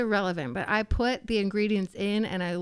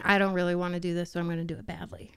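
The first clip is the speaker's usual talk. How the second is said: mock grumbling; much faster than usual. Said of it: "like men saying".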